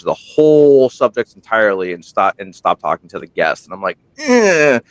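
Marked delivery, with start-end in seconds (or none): 4.2-4.8 wincing eh. Retold or imitated. Reacting to awkward moment.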